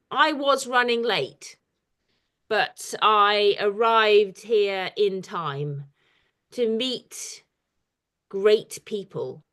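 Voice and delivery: slow recital with pauses between phrases; improvised poem. Shown as a demonstration. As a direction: invent the verse as you go, slowly and deliberately. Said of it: "I can invent one now".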